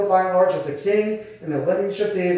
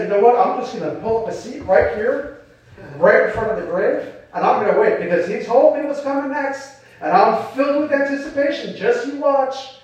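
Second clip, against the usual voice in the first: mock eager anticipation; 5 semitones higher than usual. Disciples at the grave, imagined as eager, in hammed-up anticipation. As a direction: voice lifted high with mock eagerness, slowing on the last words. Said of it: "There's no excited anticipation for this".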